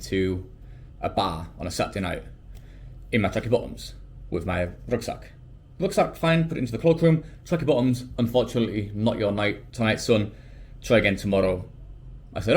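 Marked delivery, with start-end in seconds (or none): 5.8-11.7 badly faked Irish accent, easing down in pitch; attempted Irish accent. Dublin bouncer turns away a traveler, attempted Irish accent. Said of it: "that's a terrible Irish accent".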